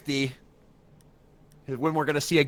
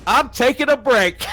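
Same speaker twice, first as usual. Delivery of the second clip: laughing; 8 semitones higher than usual. Real, not acted. Laughing after marathon game.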